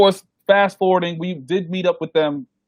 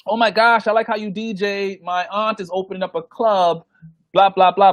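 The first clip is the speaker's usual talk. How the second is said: mock gushing fan; 4 semitones higher than usual.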